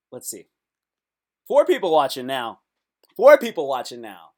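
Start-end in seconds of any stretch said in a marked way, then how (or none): 1.5-2.6 excited count. Real, not acted. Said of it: "excited about viewers". 3.2-4.3 louder excited count. Real, not acted. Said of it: "excited about viewers".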